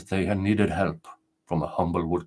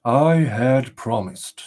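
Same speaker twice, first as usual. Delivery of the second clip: fearless, firm reply; 3 semitones higher, 4 dB louder, much slower than usual. Acted. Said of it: "with a fearless look".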